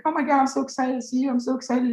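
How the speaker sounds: gushing, high-pitched fake fan; mock excitement. Prankster pretending to greet politicians at a rally, mock-excited. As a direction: squeal a greeting in a high, hurried imitation.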